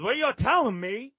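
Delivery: drawn-out Texan drawl with long pauses; mock Southern Texan drawl, phrase by phrase. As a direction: imitate a Texan shot caller spelling it out. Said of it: "with that Southern Texan drawl".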